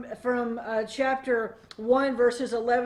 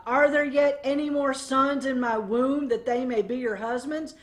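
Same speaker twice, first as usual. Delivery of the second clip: mildly sarcastic rhetorical question; a hint of a tired, mocking old woman; snarky sarcasm; 2 semitones higher, 4 dB louder than usual. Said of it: "a little bit of a snarky sarcasm".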